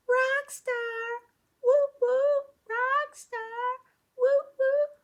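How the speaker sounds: high, loud cheer; high excited praise. Real, not acted. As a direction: cheer the class on. Cheering a correct answer.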